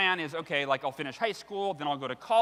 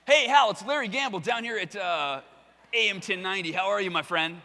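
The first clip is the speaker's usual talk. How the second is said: DJ voice. Retold or imitated. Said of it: "He has one of those D J voices".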